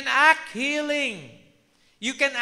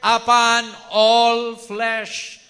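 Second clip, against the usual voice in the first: slow, loud, measured reading of Joel; scripture quote; 7 dB louder, much slower than usual. Acted. Preacher quoting Joel slowly and loudly to the congregation. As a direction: pour the verse out slowly, like proclaiming scripture. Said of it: "Joel, di ba?".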